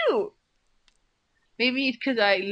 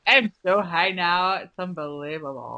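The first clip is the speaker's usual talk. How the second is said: put-on stoned voice; 4 semitones lower than usual. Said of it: "I'm gonna do the entire podcast like that".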